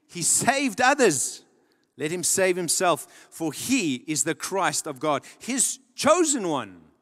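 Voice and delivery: slow, drawn-out mock scorn; scoffing. Rulers scoffing at Jesus on the cross, slow sneering taunt. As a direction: read it as a sneering ruler, taking your time. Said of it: "the rulers scoffed at him".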